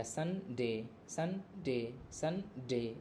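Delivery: "संडे" with a quick सं and a stretched डे; second syllable drawn out. Shown as a demonstration. Teacher demonstrating stress to students, "संडे" with lengthened डे. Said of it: "डे थोड़ा खींच करके बोले".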